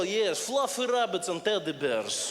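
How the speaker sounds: put-on slow, menacing Russian accent on sweet words; Russian accent, sweet words said like a threat; a lightly done Russian menace accent; mock Russian accent. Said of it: "even if Russians say nice things".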